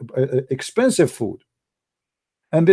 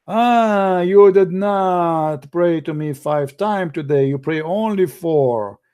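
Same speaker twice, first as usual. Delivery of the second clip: mock angry God. Voicing an angry punishing God.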